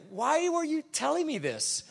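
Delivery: how do you even know that; incredulous retort. Retold or imitated. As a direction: pitch it up high, play the puzzled neighbour. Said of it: "I'm like".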